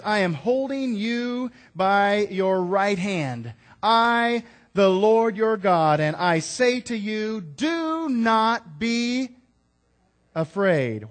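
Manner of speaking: loud, slow, high proclamation, drawn out on do not be; booming, deliberate divine promise; voice of God. Acted. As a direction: speak as God, slowly and with weight. God says.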